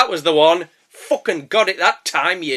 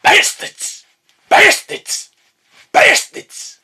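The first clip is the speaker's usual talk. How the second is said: rising higher and louder each time; mock insult yells; 14 semitones higher, 5 dB louder, much slower than usual. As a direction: keep hurling it, climbing up. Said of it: "I love doing the bastards".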